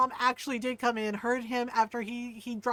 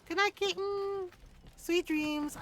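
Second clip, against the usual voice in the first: high cooing good night; tender good night; 7 semitones higher than usual. Real, not acted. Wishing the kitten sweet dreams, tender cooing. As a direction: coo it sweetly to a pet.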